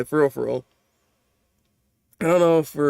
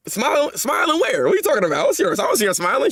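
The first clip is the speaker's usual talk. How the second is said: incredulous; 6 semitones higher than usual. Real, not acted. Disputes manga girl's smile claim.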